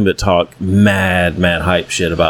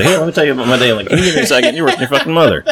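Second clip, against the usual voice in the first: laughing retold; 6 semitones higher, faster than usual. Retold exchange with kid, laughing.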